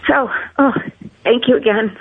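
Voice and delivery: breaking into a sob, then thanks; choked up. Real, not acted. Grandmother thanking the doctors, choked up with tears. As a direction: voice catching on tears of gratitude. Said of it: "I'm sorry for getting emotional".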